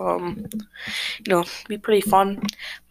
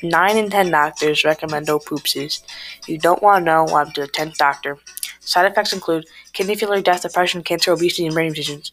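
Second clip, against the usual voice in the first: mock commercial pitchman voice; cheerful ad with eerie menace. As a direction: hype up a sketchy sponsor. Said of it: "introduce a special guest from our first sponsor".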